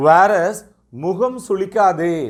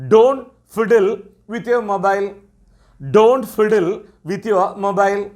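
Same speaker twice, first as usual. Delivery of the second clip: slow teacher model phrase; much slower than usual. Shown as a demonstration. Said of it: "எப்படி சொல்லுவோம்?".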